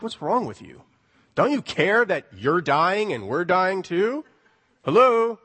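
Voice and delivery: mock disciples scolding their teacher; sarcastic accusation. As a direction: needle him for sleeping while they sink. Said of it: "It's a sarcastic remark. It's an accusation even".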